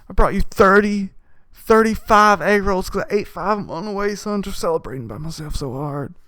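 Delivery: hammed-up dad handing over a gift; proud dad voice. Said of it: "the man who goes".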